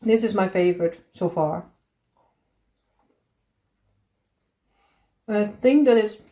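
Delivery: talking through a mouthful of cake; words round a bite of food; mouth full. Real, not acted. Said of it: "talking with my mouth full".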